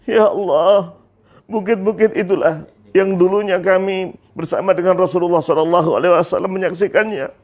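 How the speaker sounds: a touch of acted weeping; starting to cry. Bilal seeing Madinah's hills, starting to cry. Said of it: "mulai menangis".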